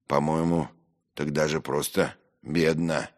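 matter-of-fact, serious verdict; understated grave remark. Acted. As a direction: state it soberly. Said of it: "серьёзно заметил Трудолюбов".

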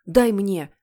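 loud, grabby demand; demanding yell. Acted. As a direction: shout it as a greedy boy's order. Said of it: "заорал Генри". (громкий требовательный окрик)

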